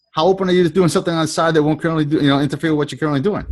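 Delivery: brisk, well-worn recruiting question; smooth quick pitch. Shown as a demonstration. Coach demonstrating the practiced opener, brisk and easy. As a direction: say it fast like you've said it a million times. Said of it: "you have to practice it".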